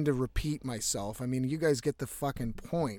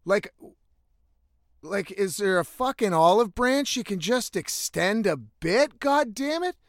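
exasperated, higher-pitched outburst; retold shout; 5 semitones higher, 3 dB louder than usual. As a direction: cry out in exasperation at the sky, not full force. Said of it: "I fucking shouted out".

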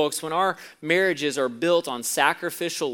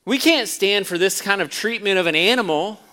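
shocked husband outraged at the shooting; louder, aghast disbelief; horrified; 4 semitones higher, 8 dB louder than usual. A narrator's reading. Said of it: "And horrified".

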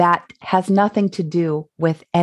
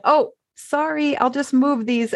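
higher, light apologetic quote; apologetic self; 7 semitones higher than usual. Retold or imitated. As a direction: sing out a quick polite sorry. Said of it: "and I said".

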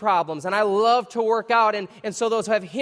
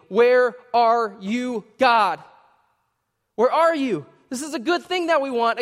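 pleading cry; 3 semitones higher, 4 dB louder than usual. Retold or imitated. Voices pleading prayer.

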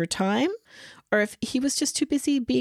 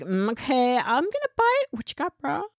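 casual bro voice; 7 semitones higher than usual. Retold or imitated. Playful quote of curious Marcus.

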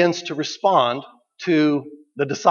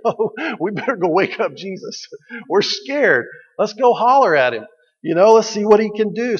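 mock scared disciples; 4 semitones higher than usual. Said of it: "the prayer experience ... to say".

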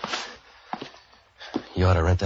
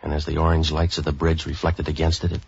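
hard-boiled narration; 2 semitones lower than usual. A narrator's reading. Detective narrating his case to the listener, dry noir narration. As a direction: tell it like a tired private eye looking back.

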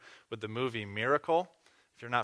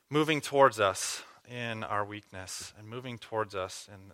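prayer. Acted. Leads closing prayer.

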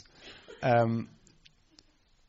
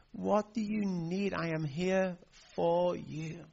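slower soothing; 4 semitones higher, slower than usual. Retold or imitated. Granddad reassures the crying toddler, slow and gentle. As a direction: ease the child down slowly.

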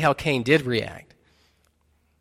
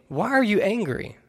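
raised-pitch questioning scripture reading; pitched-up, projected Bible quote; scripture read aloud; 6 semitones higher than usual. A narrator's reading. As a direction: read the Lord's question out to the congregation. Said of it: "He says to Cain".

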